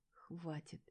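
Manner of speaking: barely audible plea; faint whisper. A narrator's reading. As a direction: breathe it out, spent. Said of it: "еле-еле шепнула я".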